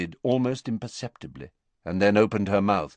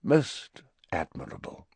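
flat disinterest; bored; 3 semitones lower than usual. Acted. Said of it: "said Snape in a bored voice".

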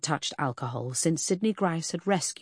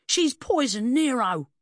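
high, drawn-out outraged cry; slow, high wail of accusation; squealed accusation; 8 semitones higher, 4 dB louder than usual. A narrator's reading. Squealing man accuses the woman.

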